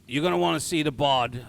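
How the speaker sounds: lightly voiced Cockney guard; hint of a Cockney sentry; shitty Cockney accent. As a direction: give directions in bad Cockney. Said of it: "my shitty Cockney accent".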